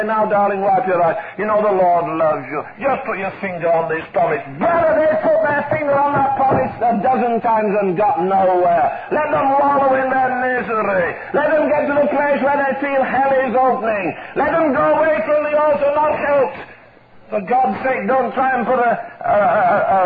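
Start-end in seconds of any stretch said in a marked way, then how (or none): 0.0-4.4 lower-pitched imitation of a comforting counsellor; mock soothing. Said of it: "we say". 4.6-16.6 indignant pulpit exhortation; forceful preaching. Acted. Preaches against easy comfort.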